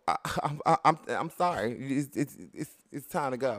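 halting, stumbling over each restart; stammering mock apology. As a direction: act out a hesitant backing-down. Acts out stammered apology to a teenager.

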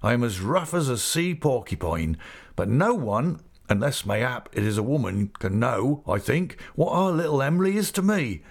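lightly voiced rustic, lifting at the end; Mister Peggotty, heartfelt. Rough seaman confiding his love for his niece, heartfelt. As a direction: confess fondness in country dialect.

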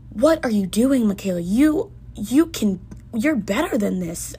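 a frustrated talk-to-self in the mirror; frustrated self-scolding. Retold or imitated. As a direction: snap at yourself in frustration. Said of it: "I was so frustrated".

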